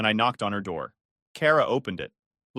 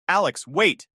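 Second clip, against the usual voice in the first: panicky; 6 semitones higher, 5 dB louder, slower than usual. Acted. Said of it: "panic creeping into her voice".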